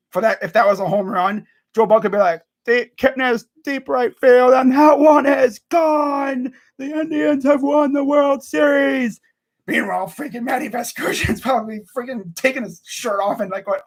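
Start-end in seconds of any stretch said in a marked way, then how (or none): 2.7-9.2 raised, loud, drawn-out championship call; sportscaster. Acted. Fan picturing Joe Buck calling a Series walk-off, booming sportscaster. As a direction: announce it big, stretching the key words. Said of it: "I could just picture Joe Buck".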